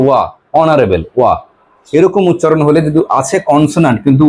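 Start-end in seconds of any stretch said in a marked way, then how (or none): 0.1-1.3 "অনারেবল" begun on a vowel, "ওয়া" shown as its opening sound; vowel-sound demonstration. Shown as a demonstration. Teacher showing why it takes "an", sounding out "ওয়া" in "অনারেবল". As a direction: say "অনারেবল" with no h, then isolate "ওয়া". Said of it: "কিন্তু উচ্চারণ কি হচ্ছে?".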